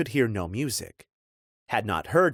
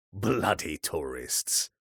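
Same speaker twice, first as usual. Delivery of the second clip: put-on slow, dismissive old-man grumble; scoffing old man; 2 semitones lower, 3 dB quieter, slower than usual. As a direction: mutter it like a cranky old local.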